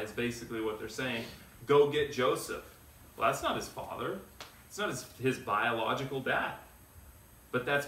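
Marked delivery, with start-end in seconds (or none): 1.7-2.6 louder, higher mock of the scoffing Pharisees; mocking demand. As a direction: throw it out like a sneering challenge.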